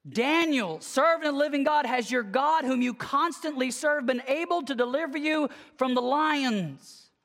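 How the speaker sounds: mild mock call out to the den; retold shout. King calling into the lion's den at dawn, mild mock shout. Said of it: "he shouts out a question".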